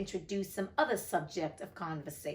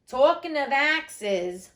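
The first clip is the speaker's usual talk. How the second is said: menacing duchess; 4 semitones higher, 7 dB louder, much slower than usual. A narrator's reading. Duchess turns violent.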